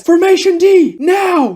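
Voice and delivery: high, loud military order; shouted command. Acted. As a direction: bark the order at the platoon. Captain barks order to spooked platoon.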